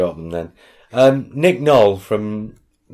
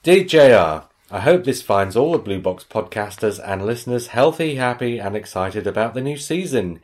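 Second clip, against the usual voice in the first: emphatic, lightly put-on Missouri accent; 4 semitones higher, 3 dB louder than usual. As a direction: announce the email in a mock Missouri accent. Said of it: "about the accent I'm about to do".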